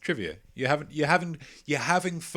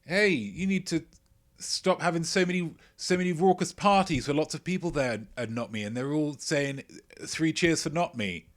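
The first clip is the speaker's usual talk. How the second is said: higher put-on voice scolding the party host; complaining neighbor; 6 semitones higher than usual. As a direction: play the grumpy neighbor. Neighbor complaining about parties.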